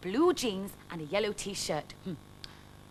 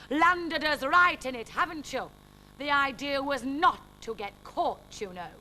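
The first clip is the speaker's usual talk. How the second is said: crying out; 5 semitones higher than usual. Acted. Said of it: "Uncle Jasper cried".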